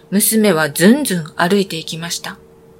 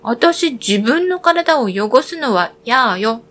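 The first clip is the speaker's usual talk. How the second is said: spat out dismissively; 3 semitones higher than usual. Acted. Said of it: "言い捨てて".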